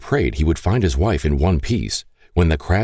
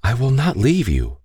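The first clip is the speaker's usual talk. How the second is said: higher, gentle reassurance; tenderly voiced comfort; reassuring promise; 7 semitones higher than usual. A narrator's reading. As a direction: promise it soothingly, pitched up. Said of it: "Catherine promised as she patted".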